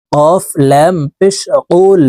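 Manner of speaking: letter by letter, each sound named; spelling out letters. Shown as a demonstration. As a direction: spell out কুল slowly for students. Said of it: "বানান সহকারে শব্দে শব্দে". (অক্ষরে অক্ষরে বানান করে)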